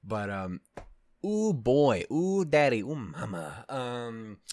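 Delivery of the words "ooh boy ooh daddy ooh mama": loud gleeful exclamations; excited ooh. Real, not acted. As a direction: shout it out with glee.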